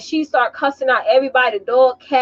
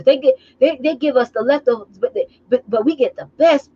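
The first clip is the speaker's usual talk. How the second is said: mocking house slave; 3 semitones higher than usual. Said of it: "But that's how she sounded to me".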